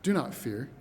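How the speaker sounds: low, measured reassurance; quietly steady prophet; calm. Acted. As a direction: say it calmly, without any alarm. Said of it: "Elisha just calmly says".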